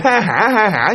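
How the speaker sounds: mock ghostly cackle. Shown as a demonstration. Storyteller shows how the ghost didn't laugh, mock cackle. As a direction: demonstrate a big demonic laugh. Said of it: "như ma như quỷ".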